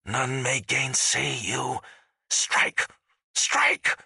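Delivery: high, slow battle proclamation; spectral warlord. A narrator's reading. Spectral warlord commanding death to strike, fierce and declamatory. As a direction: urge the dead on, harsh and commanding.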